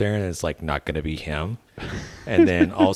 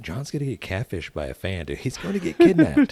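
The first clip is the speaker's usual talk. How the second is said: laughing; 4 semitones higher than usual. Retold or imitated. Teasing John about fans.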